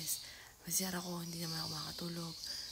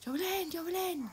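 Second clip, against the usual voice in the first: much higher, calling twice; frantic yelling; 11 semitones higher, 4 dB louder than usual. Retold or imitated. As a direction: shout the name over and over. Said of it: "sobrang palaho na ako". (sumisigaw nang paulit-ulit kay Jovelyn)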